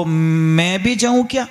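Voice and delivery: slow, drawn-out, tentative asking; hesitant request. Acted. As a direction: ask permission slowly, stretching the first word. Daughter-in-law timidly asks permission.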